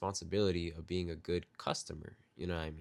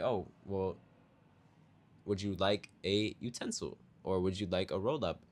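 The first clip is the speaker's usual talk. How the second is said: a hint of a sweet, softer server voice; polite server; 6 dB quieter than usual. Server showing the polite way to offer utensils. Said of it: "I'd be like".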